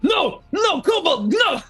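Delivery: very high, loud panicked cry; panicked jailer shout. Acted. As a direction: shout in panic at the empty cell. Jailer panics finding cell empty.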